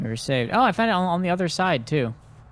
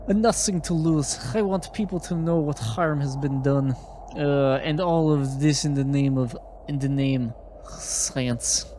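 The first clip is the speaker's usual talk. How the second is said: put-on higher, halting accented reading voice; confessing old woman, put-on foreign accent; 4 semitones higher than usual. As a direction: read her testimony solemnly in a put-on accent. Reads a guard's confession aloud in character.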